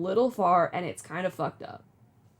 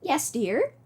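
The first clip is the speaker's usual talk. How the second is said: put-on old lady voice; 3 semitones higher than usual. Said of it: "do an old lady voice".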